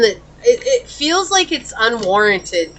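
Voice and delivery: real emotion breaking through; tearful. Real, not acted. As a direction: voice catching on real tears, slowing. Emotional reader tears up mid-reading.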